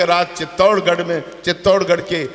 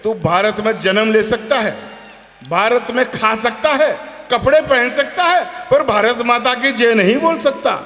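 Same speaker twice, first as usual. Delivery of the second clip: put-on raised, scolding voice at a young upstart; scolding retort. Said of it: "मैंने कहा".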